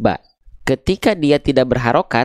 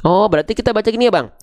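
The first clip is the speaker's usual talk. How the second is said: higher, quicker learner's voice; acted student question; 5 semitones higher, faster than usual. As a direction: lightly play a pupil checking. Acts student checking the reading. (menirukan murid bertanya, agak cepat)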